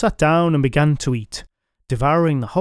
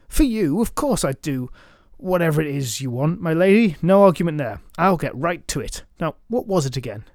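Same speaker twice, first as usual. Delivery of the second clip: eager knight; 3 semitones higher than usual. Acted.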